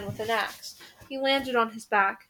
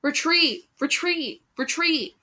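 rally the fleeing troops with a cry; called at the top of his lungs; 5 semitones higher, slower than usual. A narrator's reading. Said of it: "he called at the top of his lungs".

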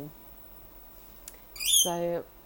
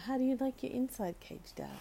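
pet talk; 6 semitones higher than usual. Real, not acted. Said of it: "talking to the bird".

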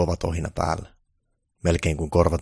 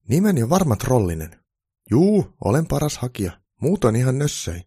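higher, louder cocky troll applicant; self-confident; 7 semitones higher, 6 dB louder than usual. A narrator's reading. Troll applicant boasting to Santa at interview, self-confident. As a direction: boast with full self-assurance. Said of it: "hakija sanoi itsevarmasti".

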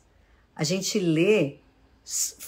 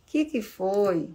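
gentle asking; slower than usual. Shown as a demonstration.

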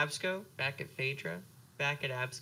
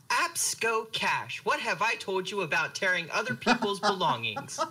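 scolding mom; 3 semitones higher than usual. Acted.

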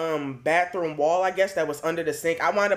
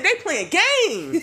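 high, slow, laughing; laughing disbelief; 12 semitones higher, 4 dB louder, much slower than usual. Retold or imitated. Mice squealing once the door shuts, high and laughing. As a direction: crack up at the sneaky mice.

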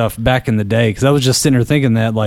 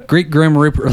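laughing; 2 semitones higher than usual. Shown as a demonstration. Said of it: "every part of my Danville comes out".

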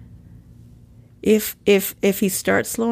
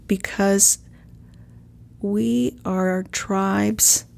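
whispered emphasis; much slower than usual. Real, not acted.

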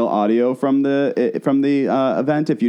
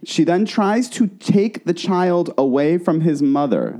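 deliberate, measured incredulous delivery; slow emphasis; 5 semitones higher, slower than usual. Real, not acted. Host telling listeners about the attempted child-taking, slow emphasis. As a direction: spell out the shocking event slowly. Emphatic retelling, then let me repeat.

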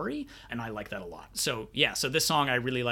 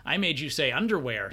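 put-on taunting kid; 9 semitones higher than usual. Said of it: "and it's like".

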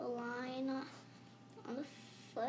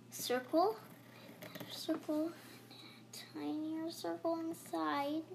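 whispering; 3 semitones higher, slower than usual. Real, not acted. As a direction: whisper it gently, slowly. Whispered drawing instruction.

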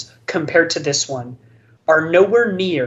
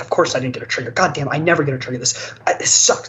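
retold ranting; much faster than usual. Opponent complaining about missing a trigger, retold ranting. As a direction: imitate a sore player griping. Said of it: "he just kinda kept ranting".

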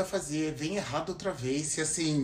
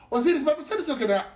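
mock pest voice; 10 semitones higher, 4 dB louder, faster than usual. Mocking an interrupting third person.

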